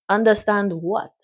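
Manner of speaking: put-on lightly done Caribbean accent for a doctor. Doctor greeting a worried mother, light Caribbean accent. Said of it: "I'm gonna give him a Caribbean accent".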